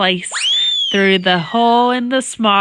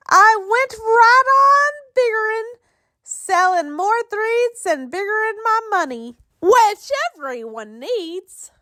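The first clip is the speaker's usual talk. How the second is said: boastful; 10 semitones higher than usual. A narrator's reading. Once-ler boasting about biggering.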